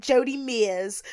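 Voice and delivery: drawn-out Australian pronunciation; lightly put-on Australian accent. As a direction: say the name slowly like an Australian. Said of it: "say in Australian accent".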